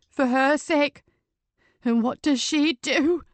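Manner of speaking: anguished protest. Acted. Patrick shouts from collapsed cottage.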